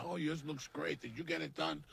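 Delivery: high, sugary mock compliment; mock fake-friendly woman. Mocking surgery-faced women greeting each other in a high gushing voice. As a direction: gush like a fake-nice socialite.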